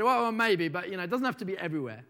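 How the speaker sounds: mock flustered backtracking, quickening; taken aback. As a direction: start loud on "well", then hurry through the excuse. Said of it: "He was rather taken aback".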